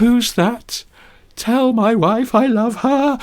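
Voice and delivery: high, strained dying-man plea; wounded soldier gasping. Pretend. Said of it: "it's like a dying man in a movie".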